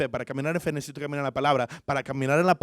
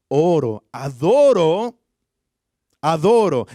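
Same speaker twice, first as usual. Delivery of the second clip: swelling preaching; 6 dB louder, slower than usual. Acted. Preacher building on worship.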